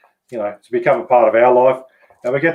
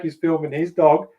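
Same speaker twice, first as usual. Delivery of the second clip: ordinary talk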